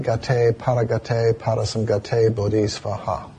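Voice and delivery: gate, paragate, parasamgate, bodhisvaha with the stress kept off the penultimate syllable; the Sanskrit mantra recited with even, non-penultimate stress; Sanskrit mantra pronunciation. Shown as a demonstration. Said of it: "it's pronounced".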